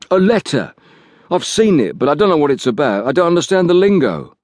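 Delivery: frightened Liggett. Acted. Liggett voiced higher.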